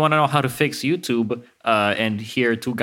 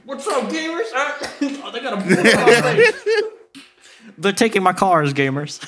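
laughing Keemstar impression; 9 semitones higher than usual. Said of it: "They slam him on the desk".

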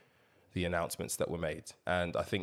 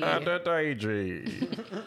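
dramatic announcer; 8 semitones higher, much slower than usual. Acted. Stretching the name out.

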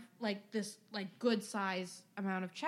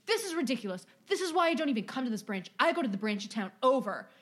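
louder, fast indignant customer rant; mock angry rant; 2 semitones higher, 6 dB louder than usual. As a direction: rattle off the grievance like an entitled customer. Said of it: "He goes".

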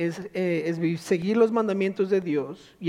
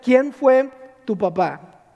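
louder, higher, amazed voice of King Saul; excited royal exclamation; awed king; 4 semitones higher, 6 dB louder than usual. Retold or imitated. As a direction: play the impressed king marvelling. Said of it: "Saúl empieza a decir".

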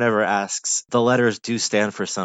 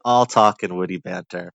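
triumphant; 6 dB louder than usual. Real, not acted. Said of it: "Ah, that's it".

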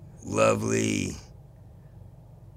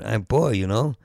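lightly put-on Puerto Rican accent, poor as poy. Shown as a demonstration. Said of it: "You do it in a Puerto Rican accent".

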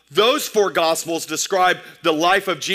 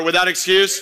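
louder call. Shown as a demonstration. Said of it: "say it one more time louder".

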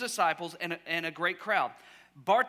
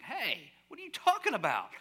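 higher-pitched mock indignation; indignant; 4 semitones higher than usual. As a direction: challenge them, put out on someone's behalf. Acting out the upset disciples.

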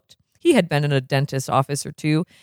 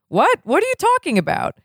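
much higher, startled doctor; startled shriek; 13 semitones higher than usual. Acted. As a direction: yelp it out in alarm. Blatnoyd startled by Doc.

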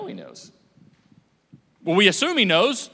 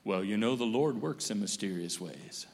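well-meaning platitude; 10 semitones lower, 8 dB quieter than usual. Retold or imitated. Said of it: "well-intended person that comes up".

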